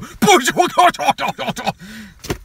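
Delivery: high, garbled nonsense babble; mock sputtering outburst. Another guy reacting to the rare tulip, mock sputtering. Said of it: "and another guy go".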